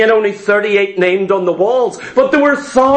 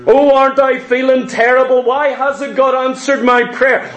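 self-pity. Retold or imitated. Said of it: "While we're licking our wounds".

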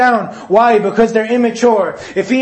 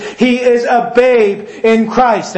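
slow emphasis; slower than usual. Real, not acted. Preacher drives home verdict.

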